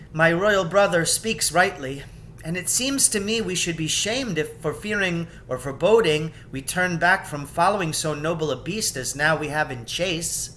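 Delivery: sincere agreement with her brother; lightly voiced brave young queen; eager Queen Lucy.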